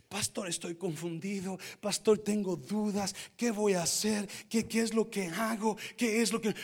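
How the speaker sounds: lightly voiced confused member. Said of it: "Tanta gente que está en duda".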